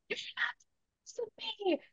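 high, soft mock child yell; imitating son's yell. Mother retelling how her son yelled back, high child mock yell. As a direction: squeak back like a defiant little kid. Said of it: "yelled back at me and was like".

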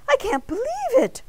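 high, loud shocked outburst; appalled, pitch leaping up; gasping disbelief. A narrator's reading. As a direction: cry out, stunned by the news. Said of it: "Arnie gasped".

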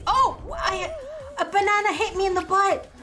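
high, loud yelp of surprise; shocked outcry. Real, not acted. Streamer hit by a banana in the game, shocked outcry. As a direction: cry out as if suddenly smacked.

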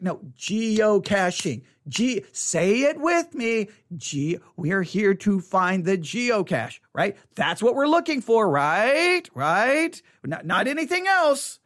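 slow, over-deliberate parent voice; patient parent. Retold or imitated. Parent refocusing the kid, slow and deliberate. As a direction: spell it out slowly to the kid.

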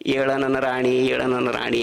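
slow, drawn-out husband's coaxing; gentle coaxing. Acted. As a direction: act out gently waking a beloved wife. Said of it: "ಹಗರ್ಕೆ ಎಬ್ಬಿಸ್ದ".

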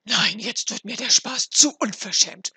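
very loud outraged shout; indignant cry. A narrator's reading. Frau Hanne outraged at the dwarf's joke, indignant cry. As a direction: burst out at full voice, fed up. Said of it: "rief Frau Hanne ihrer Nachbarin zu".

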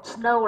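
snow, its vowel a clear "oh"; O sound in snow. Shown as a demonstration. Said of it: "là âm O". (đọc snow với âm "âu")

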